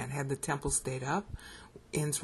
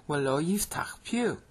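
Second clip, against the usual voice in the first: American-accented Hebrew; slower than usual. Shown as a demonstration. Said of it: "my bad American accent".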